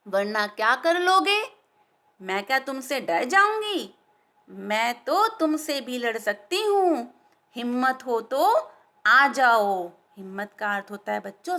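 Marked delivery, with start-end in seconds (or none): 0.1-9.9 bold little taunt, louder; cheeky defiance. Acted. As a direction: dare the lion to come at her. Tiny fly challenges the lion. (छोटी मक्खी की निडर ललकार)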